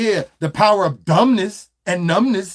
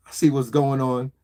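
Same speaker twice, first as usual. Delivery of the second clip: knowing low murmur; 6 semitones lower, 5 dB quieter, slower than usual. Retold or imitated. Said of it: "we be like".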